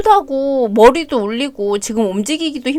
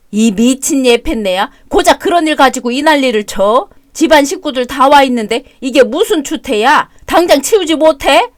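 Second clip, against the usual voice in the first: angry shouting. Acted. Couple's shouting match.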